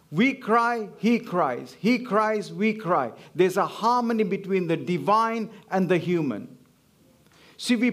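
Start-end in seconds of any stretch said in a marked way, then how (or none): 0.1-1.8 WE cry, HE cries, lean on the pronouns; stress on we and he. Shown as a demonstration. Preacher contrasting who cries, pronouns stressed. 1.8-3.1 HE cries, WE cry, pronouns leaned on; stress on he and we. Shown as a demonstration. Preacher reversing the contrast, pronouns stressed.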